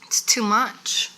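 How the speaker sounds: slow breathy whisper. Real, not acted. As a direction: drop to a whisper to confide. Whispered aside on dewy blush.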